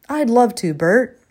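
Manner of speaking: happy neighbor, bright and eager; beamed. A narrator's reading. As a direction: accept with a beaming smile in the voice. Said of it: "Roger beamed".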